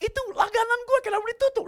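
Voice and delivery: high, loud scolding; angry boss. Retold or imitated. Boss scolding the maid over the hung-up call, loud and high. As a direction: demand it angrily.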